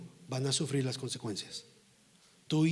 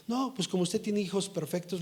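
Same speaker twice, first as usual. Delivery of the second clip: imitating a sarcastic critic, pitched up; mock sarcastic; 4 semitones higher than usual. Churchgoer needling the pastor about his children, imitated sarcasm. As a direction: throw out a higher-pitched sarcastic jibe. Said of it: "Sarcásticamente".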